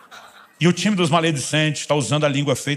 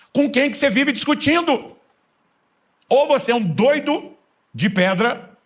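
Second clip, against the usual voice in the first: high, slow, loud mock disbelief; hammed-up high incredulous voice; mock incredulous question; 12 semitones higher, 5 dB louder, slower than usual. Preacher mocking a believer arguing alone, high and slow.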